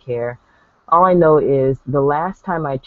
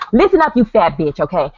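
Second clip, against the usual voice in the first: loud, higher, fast sassy tirade; hammed-up angry woman voice; mock angry woman; 4 semitones higher, 4 dB louder than usual. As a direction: tell her off like an angry woman. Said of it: "It would have been more like this".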